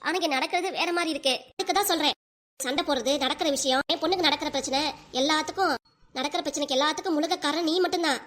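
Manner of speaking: a stern mother-in-law blaming her daughter-in-law; scolding mother-in-law. Acted. Mother-in-law blaming her daughter-in-law for everything, stern. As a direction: lay every household fight at her feet.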